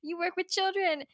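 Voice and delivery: playful dismay at a favorite character; mock shocked disbelief. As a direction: act betrayed by a nice guy. Retelling shocked reaction to Nishi.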